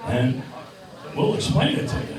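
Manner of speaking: high, lisping boxer voice, way up in pitch; squeaky Mike Tyson calling out to the crowd; Mike Tyson impression. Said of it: "and here's Mike".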